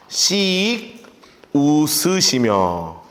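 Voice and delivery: very slow, each syllable drawn out; dictating at a crawl; slow dictation. Shown as a demonstration. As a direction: spell it out slowly for note-taking. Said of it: "이렇게 써놓으시라고요".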